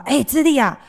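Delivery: 邻居阿姨大声调侃; neighbor auntie. Retold or imitated. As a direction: tease the grown-up kid like a blunt neighbor. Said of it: "跑过来跟我们讲话".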